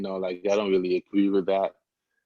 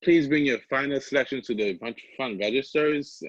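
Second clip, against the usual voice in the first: slow, raised-pitch store announcement with a sugary passive-aggressive edge; 5 semitones higher than usual. Retold or imitated. Coworker imitating Matt's closing announcement to Kohl's shoppers, passive-aggressive. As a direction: draw it out sweetly like a pointed closing-time page. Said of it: "in a very, like, passive aggressive way".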